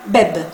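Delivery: beb with the final E silent; French beb, last vowel dropped; no final accent. Shown as a demonstration. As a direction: say beb as one syllable, ending on the b. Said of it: "yo pronunciaría".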